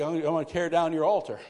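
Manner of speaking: mildly acted timidity. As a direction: say it small, with a little stammer. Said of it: "it's kinda timid to tell Daddy".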